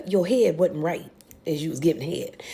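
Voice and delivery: hushed whisper. Real, not acted. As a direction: lean in and whisper it. Aside comment whispered.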